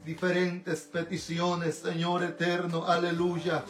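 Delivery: earnest, pleading intercessory prayer; fervent prayer. Real, not acted. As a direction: pray in rolling phrases, calling on God throughout. (oración ferviente de intercesión)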